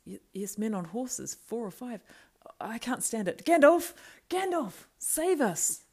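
rising from high stammer to shouting; panicked cry. Acted. Pippin unable to bear the riders, calling Gandalf in panic. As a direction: build into a desperate scream for help.

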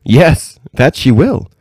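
high, knowing reply through a smile; curious smile. A narrator's reading. Old lady answering the princess with a curious smile. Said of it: "with a curious smile".

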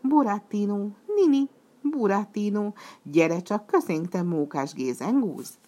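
loud, high chorus of calls; shouting together. Acted. Puppets shouting to Burattino to join them. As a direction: call him up onto the stage. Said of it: "egyszerre kiabálták".

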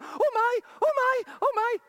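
excited shouts of oh my; retold shouting. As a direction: cry out in astonishment, rising. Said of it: "she started going".

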